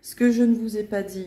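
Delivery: ordinary delivery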